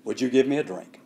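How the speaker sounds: simple request. Retold or imitated. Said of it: "very simply".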